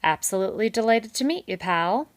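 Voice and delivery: fast, high, loud gushing; loud, quick enthusing beaver. A narrator's reading. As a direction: gush with a big grin. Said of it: "Mister Kanad enthused".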